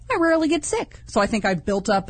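normal talking voice

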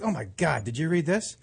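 retold roommate setup. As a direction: drop your voice as if absorbed in the paper. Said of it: "he'd be like".

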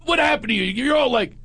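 hammed-up accusing psychic; mock outrage. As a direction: scoff it out like a scandalized critic. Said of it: "he goes".

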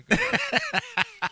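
high, loud and slow taunt; squaring up for a play fight; mock challenge.

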